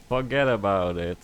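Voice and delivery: fuhgeddaboudit in a thick New York accent. Shown as a demonstration. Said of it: "a thick New York accent".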